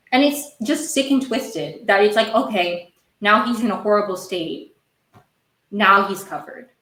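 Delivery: exasperated rant, loud and emphatic; worked up. Real, not acted. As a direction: vent in disbelief, punching out the words. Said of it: "I really need to calm down".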